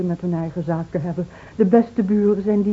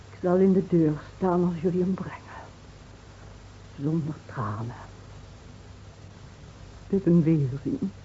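whisper; 3 semitones lower, 7 dB quieter than usual. Acted. Zacht, bijna fluisterend.

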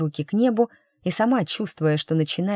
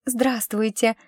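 charming greeting; 6 semitones higher, slower than usual. Acted. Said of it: "очаровательно улыбнулась Милаша".

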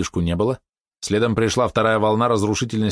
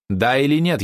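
raised, higher demanding question; louder question; 7 semitones higher, 3 dB louder than usual. A narrator's reading. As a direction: press for an answer, voice lifted. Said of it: "ещё громче спросила Мисс". (требовательно, повышенным голосом)

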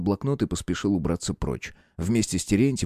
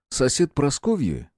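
plain reading voice

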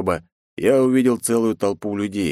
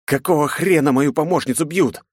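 raised, snarling at the guards; a narrator's angry snarl, voiced higher; angry growl; 8 semitones higher, 3 dB louder than usual. A narrator's reading. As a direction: growl it out in fury. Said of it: "злобно прорычал я".

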